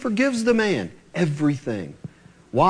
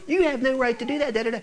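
put-on whiny kid; 6 semitones higher, much faster than usual. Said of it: "like a little kid that didn't get his way".

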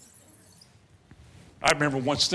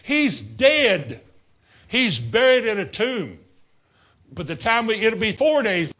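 insistent Martha; 4 semitones higher, 4 dB louder than usual. Retold or imitated. Martha protesting Jesus.

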